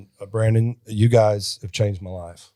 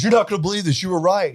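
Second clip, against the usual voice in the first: husband voiced much higher, urgent; high mock husband; 10 semitones higher, 5 dB louder, much faster than usual. Husband confessing to his wife, high mock panic. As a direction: play the panicked husband, pitched up. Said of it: "He goes".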